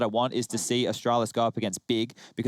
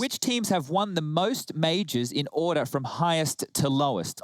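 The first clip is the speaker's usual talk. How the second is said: game show host; 3 semitones higher, slower than usual. Pretend. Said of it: "make it sound like a game show host".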